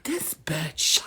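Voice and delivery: whispered dismissive aside; whispered scornful judgment. Retold or imitated. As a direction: mutter it under your breath like a secret. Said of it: "I'll be like".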